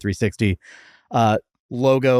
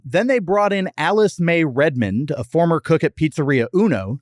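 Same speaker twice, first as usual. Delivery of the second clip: scripted history read, neatly phrased; podcast fact read. Acted. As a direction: read it out like a prepared segment. Reads the prepared history segment.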